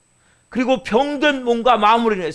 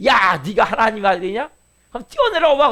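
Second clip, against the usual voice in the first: jeering crowd taunt, pitch leaping on the dare; sarcastic mocking. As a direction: imitate scornful hecklers daring him. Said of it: "막 비꼬면서 그렇게 얘기할 때". (비꼬며 조롱하는 군중 흉내)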